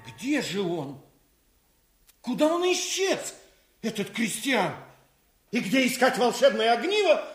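frustrated villain's rant; seething over the lost prize; foiled villain. Acted. Villain loses Christian and the tinderbox. (раздосадованный злодей)

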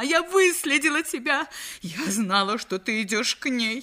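high, accusing outcry; crying out. Acted. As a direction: accuse him as a jealous wife. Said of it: "закричала она". (ревниво выкрикивая)

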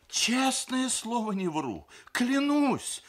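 high, loud, pleading oath; panicked babbling. A narrator's reading. Groom accused by grandmother, babbling in panic. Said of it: "залепетал Сергей Николаевич".

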